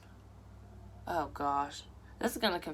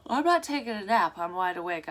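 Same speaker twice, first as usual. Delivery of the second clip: talking through a yawn; words stretched by a yawn; 4 dB louder than usual. Real, not acted. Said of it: "I don't know why I'm yawning".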